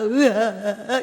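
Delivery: badly faked wail, half laughing; mock crying. Shown as a demonstration. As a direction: imitate someone bawling weakly. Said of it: "이렇게 울었겠어요?". (우는 흉내)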